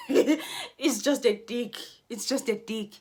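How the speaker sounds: amused contempt; laughing dismissal. Real, not acted.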